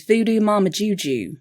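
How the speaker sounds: prim Voodoo Mama Juju accent; Angela Martin voice. Shown as a demonstration. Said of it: "Angela Kinsey playing Angela Martin in The Office".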